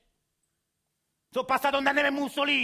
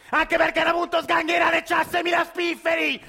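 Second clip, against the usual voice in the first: angry outburst. Acted. Grandpa yelling at his grandson about the car. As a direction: bark it out, outraged at the idea.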